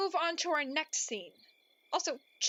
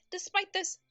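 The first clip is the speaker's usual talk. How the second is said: story narration. Acted.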